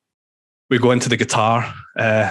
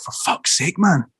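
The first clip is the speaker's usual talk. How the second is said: higher-pitched mock telling-off; retold exasperation; 6 semitones higher than usual. Singer telling off the drummer who scared off Kevin Bacon, mock exasperated. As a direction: act out an exasperated complaint at a bandmate.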